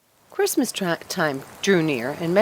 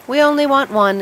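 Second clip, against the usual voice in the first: higher and louder, decisive; man choosing a tree; 9 semitones higher, 7 dB louder than usual. Acted. Man choosing the fir tree, loud and decisive. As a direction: pick the tree firmly.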